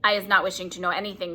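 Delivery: quick, dignified giant. Acted. BFG refuses to listen, dignified. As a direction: brush him off with dignity. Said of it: "very dignified".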